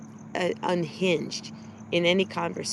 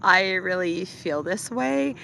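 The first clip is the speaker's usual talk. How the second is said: imitating upspeak. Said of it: "she's saying this like this".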